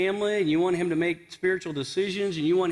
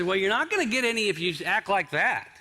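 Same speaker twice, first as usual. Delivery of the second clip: higher-pitched mock scolding; scolding wife; 4 semitones higher than usual. Wife refusing her frustrated husband, mock scolding. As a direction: tell him off, lightly hammed-up.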